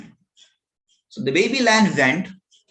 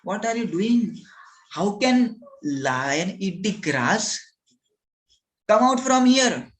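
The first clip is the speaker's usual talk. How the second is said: mildly angry scolding, rising to a command; scold, then order out firmly; angry elder lion; 3 semitones higher than usual. Acted. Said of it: "the elder lion was angry".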